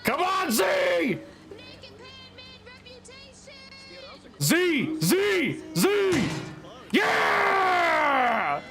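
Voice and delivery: yelling from the sidelines. Real, not acted. Cheering fighter in betting game.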